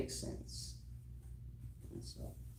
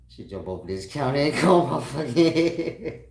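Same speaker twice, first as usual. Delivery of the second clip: louder, higher, laughing repeat; 7 semitones higher, 10 dB louder than usual. Retold or imitated. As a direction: say it again, more worked up.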